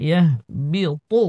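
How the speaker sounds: ইয়াহবিতু slowly, with a thick emphatic t in তু; heavy ta. Shown as a demonstration. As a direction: make the final তু of ইয়াহবিতু heavy and full. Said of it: "তর উচ্চারণ মোটা".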